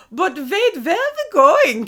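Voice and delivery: put-on high-pitched muddled German-Russian accent; puzzled henchman in a German-Russian accent. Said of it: "sometimes he sounded German and sometimes he sounded Russian".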